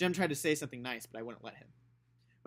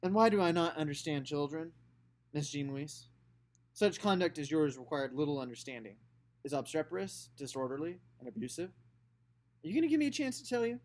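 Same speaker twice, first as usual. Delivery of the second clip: a hint of a stern uncle; 2 semitones higher, 3 dB louder than usual. Uncle Jack mock formal lecture.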